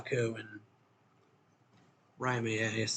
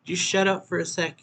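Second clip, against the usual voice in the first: higher, sharp irritated order; snapping; 7 semitones higher, 5 dB louder than usual. Acted. Noya snapping at Yu to shut up. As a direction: cut him off, annoyed.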